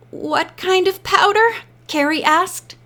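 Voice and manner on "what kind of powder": higher, mildly fearful question; tremor in voice. A narrator's reading. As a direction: ask it nervously, pitched up. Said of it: "a tremor in her voice".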